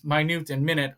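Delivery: "minute and minute" as my-NOOT and MIN-it; first "minute" as my-NOOT, second "minute" as MIN-it; two contrasting pronunciations. Shown as a demonstration. Teacher contrasting two words spelled the same, distinct pronunciations. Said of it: "the pronunciation is different".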